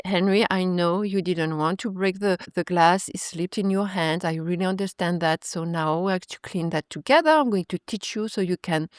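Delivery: gentle reassurance. Acted. Parent calming son after broken glass.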